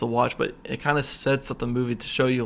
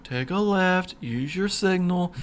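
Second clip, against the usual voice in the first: mock calm; 6 semitones higher than usual. Instructor to panicking student, mock calm. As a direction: imitate an unruffled driving teacher. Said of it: "driver instructor is staying so calm".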